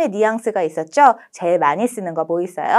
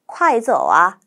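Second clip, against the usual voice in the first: native speed; much slower than usual. Shown as a demonstration. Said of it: "원어민 발음 속도로".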